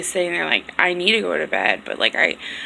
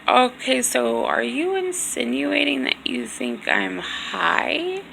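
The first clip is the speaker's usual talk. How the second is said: slow indignant question; 5 semitones higher, slower than usual. Retold or imitated. Confronting accusation of being high.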